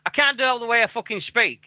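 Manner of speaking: high, fast, hammed-up whiny complaint; mock tantrum. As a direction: pretend to throw a strop, voice up high and rushing. Mock tantrum about his accent.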